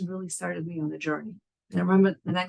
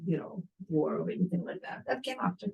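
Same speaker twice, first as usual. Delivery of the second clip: whispered aside; 7 dB quieter than usual. Real, not acted. Aside to the audience.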